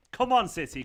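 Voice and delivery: loud rallying call to the team; cheering. Real, not acted. Cheering his team on stream.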